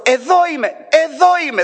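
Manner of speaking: "εδώ" stressed high and loud both times; repeated call. Acted. God calling twice to the people, stressed "εδώ". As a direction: call "εδώ είμαι" twice, rising each time. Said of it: "λέει δυο φορές".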